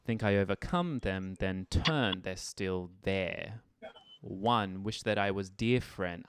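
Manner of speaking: slow, "there" drawn out, "let go" stretched; phrasing demo. Shown as a demonstration. Teacher modelling the phrasing of the lyric. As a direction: speak the lyric on the beat, lingering at the ends.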